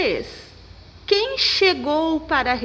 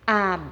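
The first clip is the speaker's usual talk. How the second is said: a-BEEE-lha, held middle syllable; stressed syllable exaggerated; 4 semitones lower, faster than usual. Shown as a demonstration. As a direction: stretch the be of Abelha, then drop on lha. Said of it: "penúltima".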